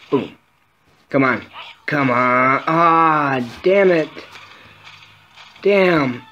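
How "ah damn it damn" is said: high, frustrated outburst; worked-up cursing, voice pushed high; really excited. Real, not acted. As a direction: cry out as the game beats you. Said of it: "I got really excited".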